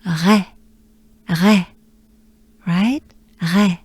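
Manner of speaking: Ré with breathy R into E; French Ré. Shown as a demonstration. Teacher combining R and E for learners. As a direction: breathe R then open E. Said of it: "together they form".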